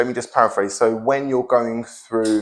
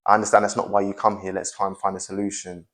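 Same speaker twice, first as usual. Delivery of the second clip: reassuring; 2 semitones lower, 3 dB quieter than usual. Shown as a demonstration. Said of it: "But me saying to Katie".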